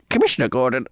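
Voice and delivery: cautious, lightly voiced character attempt; Gandhi Batman. Co-host tries the requested impression on the show, tentative character voice. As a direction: tentatively try a mash-up hero voice. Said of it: "This is Gandhi Batman".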